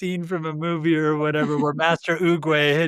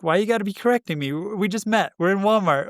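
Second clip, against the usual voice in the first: slightly higher, quick inner protest; a touch of indignant griping; mildly offended; 4 semitones higher, faster than usual. Retold or imitated. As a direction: voice a put-out ego complaining fast. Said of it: "like, offended".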